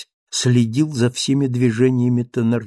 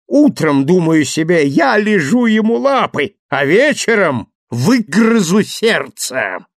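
a lightly raised, gloating villain voice; gloating Thenardier; 7 semitones higher, 4 dB louder than usual. Acted. Thenardier boasts of his trick, lightly gloating. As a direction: crow over the fooled old man.

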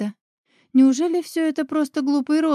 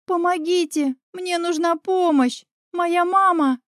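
higher, pleading, panicked call; desperate cry for help; 5 semitones higher than usual. Acted. Girl begging villagers to save her mother, panicked. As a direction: beg the frightened crowd for help.

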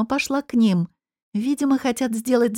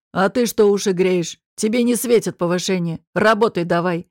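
shouting at her; 2 semitones lower than usual. Acted. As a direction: bark the order at the nosy waitress. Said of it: "прикрикнул на меня Байсаев".

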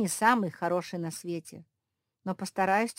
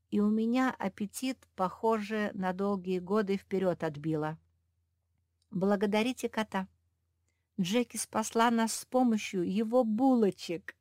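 usual speaking voice

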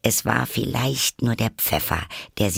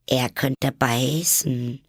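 higher, slow and careful; wary little warning, higher and slow; cautious; 5 semitones higher, much slower than usual. Acted. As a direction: warn her carefully, drawn out. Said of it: "erwiderte Alice vorsichtig".

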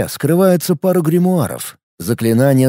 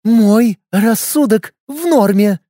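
through gritted teeth; 8 semitones higher, slower than usual. Acted. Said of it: "процедила Лика".

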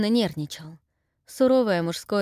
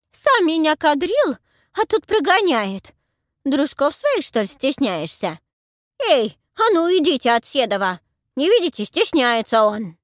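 put-on old crone complaining; 8 semitones higher, 8 dB louder than usual. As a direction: loudly shame him like a jilted old woman. Heroine plays old crone. (старуха громко жалуется, высоким голосом)

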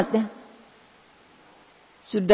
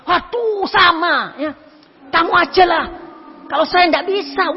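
afraid; 9 semitones higher than usual. Retold or imitated. Second friend backing out scared.

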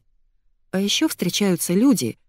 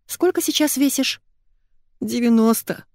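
tearful drawl; 7 semitones higher than usual. A narrator's reading. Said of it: "плаксиво протянула Маргоша".

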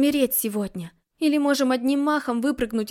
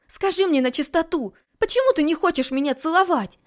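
louder, higher pressing challenge; insistent demand; 5 semitones higher, 5 dB louder than usual. Acted. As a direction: push him for the truth. Heroine demands answer.

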